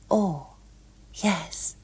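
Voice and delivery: put-on a young woman trying to sound poised; lightly voiced eager Gloria.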